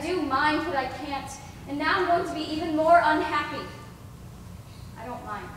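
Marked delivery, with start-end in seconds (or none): 5.0-5.5 hushed denial. Acted. Girl denies her own wish.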